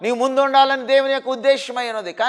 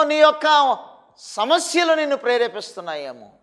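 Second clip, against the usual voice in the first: ordinary talk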